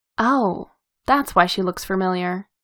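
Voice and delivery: plain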